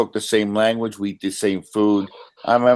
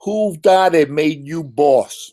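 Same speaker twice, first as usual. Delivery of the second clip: New York tough guy; 6 semitones higher, slower than usual. Shown as a demonstration. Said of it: "tough guy line".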